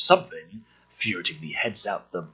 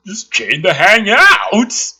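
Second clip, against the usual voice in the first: slow mock creep; 7 semitones higher, 9 dB louder, slower than usual. Voicing perp on TV.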